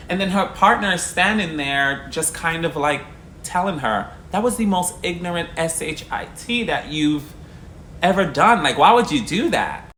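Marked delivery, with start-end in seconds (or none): 4.3-9.9 retold scolding. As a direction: scold her like she embarrassed you. Partner scolds her.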